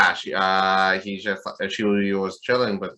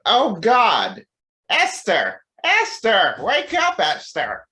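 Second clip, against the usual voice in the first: frantic high calls of a name; panicked; 10 semitones higher, 5 dB louder, much slower than usual. Retold or imitated. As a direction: shout her name in panic. Panicked man waking dying partner.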